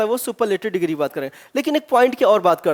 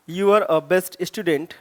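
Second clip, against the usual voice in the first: slow dictation; 5 semitones lower, much slower than usual. Shown as a demonstration. Teacher dictating sentence slowly.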